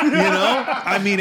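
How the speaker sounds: laughing through the words, high and loud; real laughter. Real, not acted. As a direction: let the laugh spill into the words. Laughing after impression.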